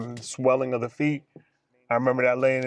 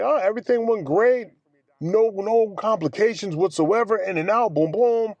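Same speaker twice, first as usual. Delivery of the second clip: cheery doctor; 6 semitones higher than usual. Retold or imitated. Doctor voiced in retold story.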